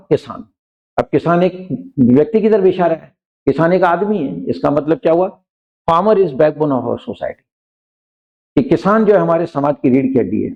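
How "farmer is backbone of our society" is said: slow, careful example sentence; dictating pace; slow example read. Shown as a demonstration. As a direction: read it out word by word for the class. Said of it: "teacher reads example slowly".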